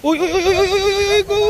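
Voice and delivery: high, loud, quick warning calls. Real, not acted. Stopping the child at the water. (malakas at mataas na sigaw sa bata)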